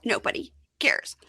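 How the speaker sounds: breathy, high hushed echo; soft conspiratorial aside; whispered agreement. Real, not acted. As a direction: echo it under your breath. Echoing co-host's dismissal.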